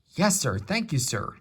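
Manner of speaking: high, eager thanks; happy. Acted. Percy thanks the Fat Controller, high and happy. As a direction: chirp it out gladly. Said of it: "said Percy happily".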